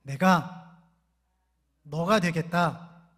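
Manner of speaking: loud, very slow, word by word; preacher's slow call-and-response line; slow emphatic recitation. Shown as a demonstration. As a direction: spell it out for the congregation to repeat. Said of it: "자, 따라해볼까요?".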